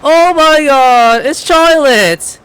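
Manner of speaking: high, drawn-out excited gushing; real excitement. Real, not acted. Player thrilled that Charlotte turned up, slow excited gush. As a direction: stretch the words out in thrilled amazement.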